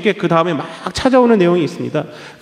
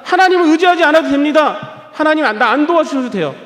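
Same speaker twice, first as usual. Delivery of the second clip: mock sinner's defiance; 5 semitones higher than usual. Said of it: "하나님 필요 없다고 합니다".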